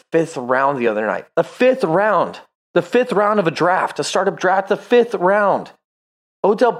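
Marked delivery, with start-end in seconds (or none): 1.3-2.4 slow, punching each word of "The fifth round"; "The fifth round" drawn out in disbelief; slow emphasis. Real, not acted. Disbelief at late draft pick. 4.7-5.7 slow, punching each word of "The fifth round"; "The fifth round" drawn out in disbelief; slow emphasis. Real, not acted. Repeats in disbelief.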